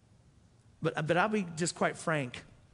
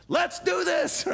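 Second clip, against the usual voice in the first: forceful dare; 12 semitones higher, 6 dB louder, much slower than usual. Retold or imitated. Thief's challenge repeated with force.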